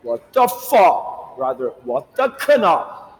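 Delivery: mock outrage, words pulled long; incredulous brother. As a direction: stretch it out like a baffled brother. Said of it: "he's gonna be like".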